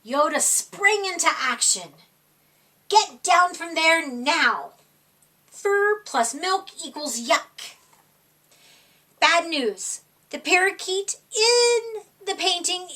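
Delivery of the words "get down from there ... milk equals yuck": stern cat papa. Acted. Yoda ordering kittens off the counter, mock stern scolding.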